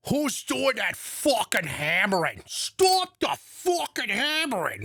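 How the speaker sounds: high, slow, exaggerated rant; hammed-up tantrum about the hammering; mock furious yell. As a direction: bark it like an enraged host. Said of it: "he's like".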